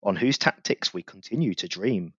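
rhythmic reading of a rhyming tribute poem; a podcast host performing his verse; poem recital. Acted. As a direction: recite it like a proud fan's ode. Reads his club poem aloud.

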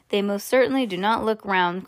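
plain reading voice

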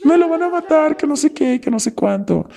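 high-pitched frightened wail; a mimicked cry of dread for a boyfriend; imitating panicked friend. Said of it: "Y ella".

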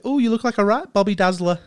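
lightly imitating an English granny's praise; granny's British accent. Imitating his granny complimenting the dressed-up kids, in a light British accent. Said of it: "They're like".

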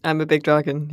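lightly voiced big dragon; a hint of a generic dragon voice. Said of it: "just like a generic dragon voice".

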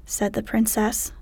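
ordinary delivery, nothing marked

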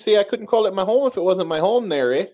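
hammy Canadian big-brother greeting; Gary Caputo voice. Acted. Greeting his podcast co-host as Gary Caputo, lightly hammed-up Canadian voice. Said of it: "desk of characters".

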